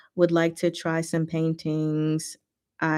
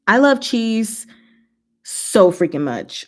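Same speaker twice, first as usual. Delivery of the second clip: gushing; 3 semitones higher, 4 dB louder, slower than usual. Real, not acted. Gushing about cheese.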